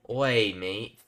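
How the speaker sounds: sudden Australian greeting; Australian accent out of nowhere. Real, not acted. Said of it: "My Australian accent came from".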